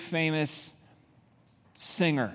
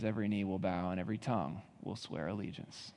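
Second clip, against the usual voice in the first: much softer, drawn into awe; hushed reverence; 5 semitones lower, 10 dB quieter than usual. Acted. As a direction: drop to a near hush after the peak. Hushed quote after building climax.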